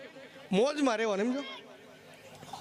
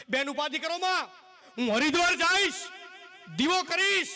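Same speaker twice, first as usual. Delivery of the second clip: saint reassuring; 6 semitones higher than usual. Acted. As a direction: promise grandly like a saint. Saint promises the woman. (સંતનો ઊંચો, ભારપૂર્વક અવાજ)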